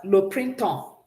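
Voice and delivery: le printemps said slowly in French; French pronunciation model. Shown as a demonstration. Teacher models the word for students, careful French. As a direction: model "Le printemps" for the class to repeat. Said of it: "Can we say that?".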